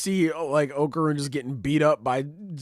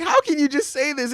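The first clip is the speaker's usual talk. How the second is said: much higher, squeaky disbelief; high girly voice; 6 dB louder than usual. Retold or imitated. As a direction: squeak it like a flustered girl. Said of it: "She's like".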